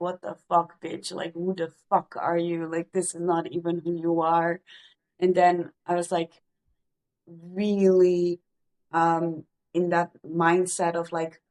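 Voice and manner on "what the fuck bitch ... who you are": normal talking voice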